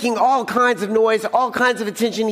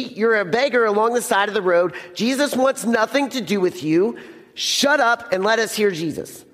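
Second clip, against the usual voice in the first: mock rebuke; 3 semitones higher than usual. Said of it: "People were like".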